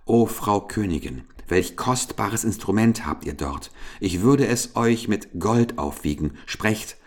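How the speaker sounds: eager, lively merchant's offer. Acted. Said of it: "Jetzt rief er lebhaft".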